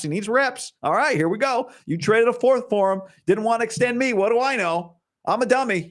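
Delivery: high-pitched mock coach, pitch climbing as he goes; imagined Mike McCarthy. Coach telling the owner this is his guy, mock exasperation. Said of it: "was Mike McCarthy basically saying".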